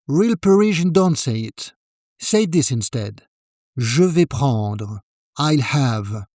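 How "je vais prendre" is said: Je vais prendre said slowly, level and flat with no upward lift at the end; slow, level and decided. Shown as a demonstration. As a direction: state Je vais prendre like you know what you want. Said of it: "Flat tone, decided, no upward lift at the end".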